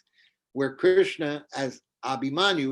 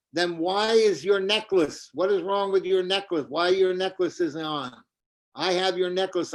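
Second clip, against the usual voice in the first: accusing; 5 semitones higher than usual. Acted. Kautilya questions about necklace.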